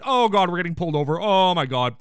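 suddenly alarmed, imitating someone freaking out; mock freak-out. Host imitating Frasier being pulled over at the border, mock freak-out. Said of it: "Everyone is freaking the hell out".

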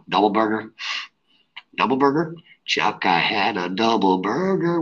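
loud, high Boston movie guy; rowdy Boston buddy, yelling; Boston accent. Acted. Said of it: "perform my Boston accent".

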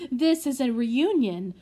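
put-on old butler overjoyed at the reunion; joyful old butler. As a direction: beam through happy tears, voice lifting. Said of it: "grinning and wiping away tears".

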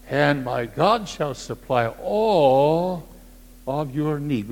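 reverent. Acted. Slow reverent reading of verse.

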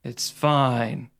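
low robot-like reply; robotic deadpan. Retold or imitated. Host imitates impostor answering the worried agents, robotic. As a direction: answer after a pause, low and emotionless. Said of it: "He just sits there like a robot".

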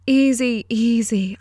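calm her down over her screams; woman urgently hushing a panicked girl. Acted. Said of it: "The woman's voice had turned soothing".

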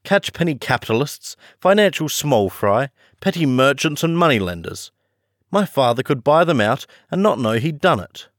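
a schoolboy scoffing at small fry; scornful. Acted. Boy to John, lightly sneering at rich men. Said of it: "a half moon of scorn".

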